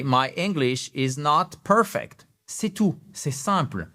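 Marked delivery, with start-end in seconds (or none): 0.0-2.3 slow, clear "my English is not perfect", PER-fect stressed first; teacher repeating slowly, "perfect" stressed on the first syllable; slow model phrase. Shown as a demonstration. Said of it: "Je répète".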